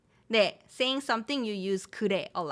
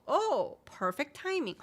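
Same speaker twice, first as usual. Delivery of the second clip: pleasantly surprised; 6 semitones higher, slower than usual. Acted. Acts out friend calling first.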